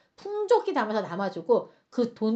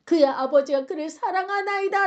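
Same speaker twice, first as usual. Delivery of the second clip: tag; 5 semitones higher, 3 dB louder than usual. Retold or imitated. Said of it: "말할 때 솔직히 좀 마음이 아팠어요".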